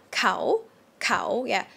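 "kao" short and rising. Shown as a demonstration. Teacher demonstrates the short rising tone. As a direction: let "kao" climb. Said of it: "carry on to the rising tone".

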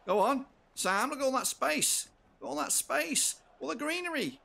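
high, loud rush of excitement; excited urging. Real, not acted. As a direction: cheer the runner on into open space. Urging player through space.

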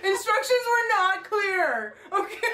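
high, slow, through laughter; can barely get words out laughing; laughing while talking. Real, not acted. Laughing fit at mixup.

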